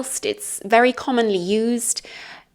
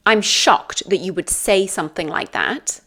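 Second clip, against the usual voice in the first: mildly disapproving, usual pitch and volume; negative shock. Shown as a demonstration. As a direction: act a restrained, offended shock. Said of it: "more of a negative thing".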